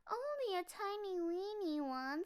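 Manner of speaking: high, small scared cub voice; a frightened little cub, voice way up high; little bear voice. Acted. Cub complaining about small lantern.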